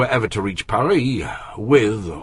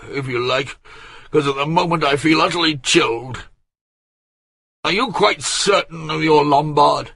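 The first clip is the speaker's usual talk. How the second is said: high, loud peevish complaint; grumpy chilled old courtier; 7 semitones higher, 3 dB louder than usual. A narrator's reading. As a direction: fret and grumble from the sickbed. Bouville's complaining reply.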